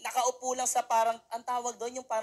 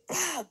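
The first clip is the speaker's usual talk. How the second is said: imitated crash sound effect; 5 semitones higher than usual. Shown as a demonstration. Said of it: "May sound effect pa".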